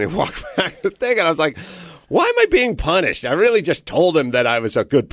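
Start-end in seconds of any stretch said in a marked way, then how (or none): 2.1-3.2 high-pitched, aggrieved retold complaint; put-upon, voice shooting up high; indignant protest. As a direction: act out a wronged player's protest. Player protests to coach in retold story.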